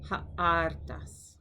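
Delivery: Ha'artas said with a breathy h at the start, stress on ar; Greek pronunciation. Shown as a demonstration. Teacher modelling Greek vocabulary, careful pronunciation. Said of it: "Now you".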